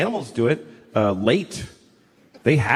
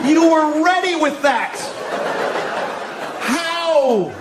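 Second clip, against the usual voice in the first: hammed-up amazed friends; 12 semitones higher, much slower than usual. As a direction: whoop like buddies overawed by a comeback. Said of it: "all Matt Damon's friends go".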